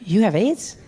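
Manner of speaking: a startled, disbelieving blurt; half laughing, caught off guard; shocked blurted question. Retold or imitated. To the president, a shocked laughing question. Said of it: "I said".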